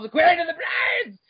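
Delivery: hammed-up epic shout; dramatic shout. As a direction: announce it like an epic trailer. Dramatic title in lore reading.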